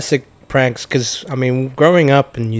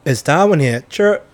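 kiwi schoolkid at roll call. Retold or imitated. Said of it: "get your name called out at school roll".

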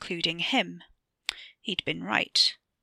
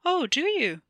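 higher, a touch of a different man's voice; sceptical older man; 9 semitones higher, 3 dB louder than usual. A narrator's reading. Older man doubting the boy's story, mildly sceptical. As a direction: doubt him with a raised voice. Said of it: "A man older than his father".

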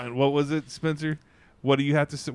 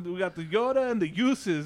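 put-on higher Mexican-accented menu listing; thick Mexican accent; 5 semitones higher than usual. Retold worker listing drinks, thick Mexican accent. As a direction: turn "sodas" and "juices" Mexican-accented. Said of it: "the guy has a thick accent".

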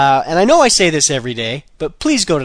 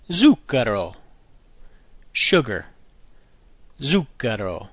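ordinary talk, nothing marked

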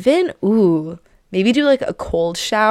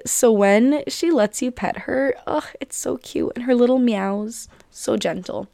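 hushed, breathy aside to the cat; 4 semitones higher than usual. Real, not acted. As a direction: whisper it so the shy cat isn't startled. Soft voice while petting shy cat.

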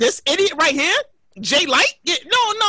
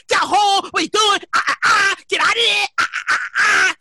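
higher-pitched imitation of mom scolding; mock fussing mother; 4 semitones higher than usual. Mom orders son home, higher mock fussing. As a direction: fuss like mom, trailing into mock squawks.

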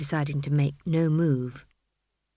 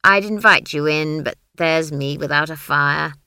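put-on old country witch; 3 semitones lower, 7 dB louder than usual. Granny voiced.

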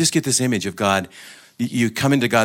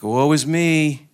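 drawn-out, higher mock lament; soul crying woe; 5 semitones higher, 4 dB louder, slower than usual. The soul backing away from God, lamenting woe. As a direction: wail it lightly and slowly, shrinking back. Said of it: "The soul backs away and goes".

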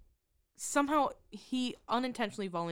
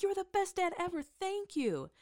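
lightly voiced daughter; 11 semitones higher than usual.

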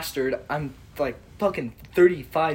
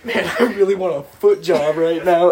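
laughing quote; 7 dB louder than usual. Retold or imitated. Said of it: "Taylor's like".

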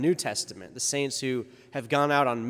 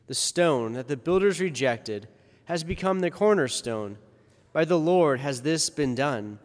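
formal liturgical reading voice; Gospel reading. Acted. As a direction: proclaim the Gospel solemnly.

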